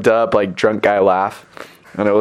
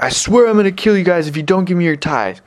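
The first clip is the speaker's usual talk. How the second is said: high mock-threatening drunk; imitated drunk threat; 7 semitones higher than usual. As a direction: mimic a drunk swearing a threat. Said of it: "drunk and drugged up".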